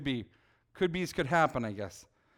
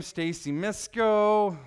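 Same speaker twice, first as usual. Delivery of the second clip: practicing her name; much slower than usual. Acted. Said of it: "practicing signing her name".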